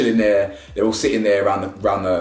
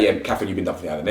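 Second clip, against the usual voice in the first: lower, softer and quick, no sadness in it; unbothered; 4 semitones lower, 3 dB quieter, faster than usual. Retold or imitated. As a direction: rattle it off like it's nothing. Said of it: "wasn't really much sadness in her".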